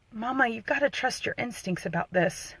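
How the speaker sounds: understated retold whisper, still voiced. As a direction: lean in and reassure, softly. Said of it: "I just whispered in her ear".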